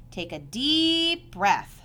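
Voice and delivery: slow, smiling instruction. Acted. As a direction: coax him gently, slowly.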